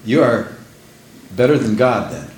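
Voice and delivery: measured, gentle reply with pauses; kindly but firmly, pausing between phrases. Retold or imitated. Preacher answering a lady who questioned hell, very kindly. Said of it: "very kindly, I said".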